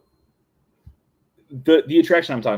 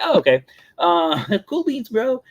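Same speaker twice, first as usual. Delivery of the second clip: higher, laughing bro voice; mock surfer bro; 12 semitones higher, 4 dB louder than usual. A young cast member mimicking the odd employee, in a higher laughing bro voice. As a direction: play the chill surfer dude, higher and giggly. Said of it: "I was like".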